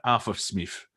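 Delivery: common British King Arthur; mock working-class British accent; average British accent. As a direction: introduce yourself as an everyday British king. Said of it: "your average British".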